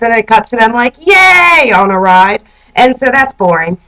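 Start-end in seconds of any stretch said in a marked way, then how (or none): 1.0-1.7 high, drawn-out whoop; mock cheer. Roommates cut to on a ride, mock cheer. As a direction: cheer like a giddy rider.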